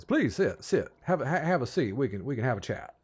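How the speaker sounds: eager, repetitive invitation; hospitable Southern host. Acted. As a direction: usher guests into their seats, stumbling over the words. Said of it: "and he, he says".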